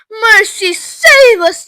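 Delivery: high, loud, stretched-out wail; alarmed yell. A narrator's reading. Mother horrified at Violet turning blue, yelling. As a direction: yell for deliverance. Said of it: "yelled Missus Beauregard".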